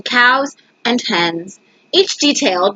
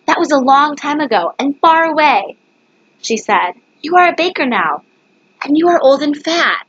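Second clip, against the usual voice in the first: scolding wife; 4 semitones higher than usual. Acted. Wife scolds her husband.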